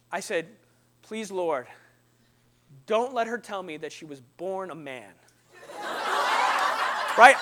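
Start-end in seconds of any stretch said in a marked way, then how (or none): 1.0-5.1 low, soft plea to God; mock-solemn murmured prayer; hushed pleading prayer. Acts out desperate silent prayer. 5.7-7.1 laugh. Real, not acted. Laughing after his punchline.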